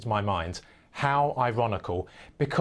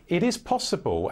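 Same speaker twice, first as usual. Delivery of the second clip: deliberate emphasis on "possible", higher-pitched phrase; raised pitch, "possible" given clear weight; stress on POSSIBLE; 4 semitones higher than usual. Real, not acted. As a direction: lean firmly on the word "possible". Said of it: "I emphasize the word possible".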